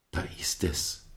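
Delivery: soft unvoiced whisper in the church. A narrator's reading. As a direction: breathe it out in awe. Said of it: "flüsterte er dabei".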